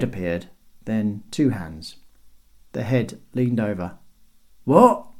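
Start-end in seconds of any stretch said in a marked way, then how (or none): 4.6-5.1 high, loud and rising; called-down question. A narrator's reading. Guard answering a hail from above, loud query. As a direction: shout it down from the wall.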